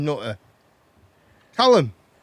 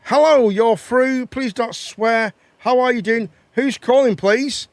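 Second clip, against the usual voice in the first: radio host; 4 dB louder, slower than usual. Pretend. Radio host answering a call.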